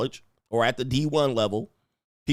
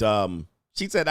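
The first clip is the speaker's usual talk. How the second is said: ordinary talk, nothing marked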